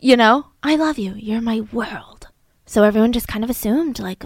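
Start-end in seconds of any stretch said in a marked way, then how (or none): 0.6-2.3 softer and slower, lingering on the words; soft, slow doting. Retold or imitated. Teller mocking the babysitter's doting caption, softly. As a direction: say it like a doting mother. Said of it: "would post pictures of him and write".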